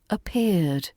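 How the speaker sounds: "Appeared" gliding smoothly, elegant. Shown as a demonstration. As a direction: let "Appeared" glide. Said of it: "Appeared should glide".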